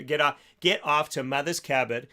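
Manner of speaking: slipping into a Boston accent on "Cupboard", dropping the r: "kabbut". Real, not acted. Radio host plugging a sponsor, lapsing into a Boston accent. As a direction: say "Mother's Cupboard" with a light Boston accent, no r's. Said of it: "I don't know why I went Boston on that one".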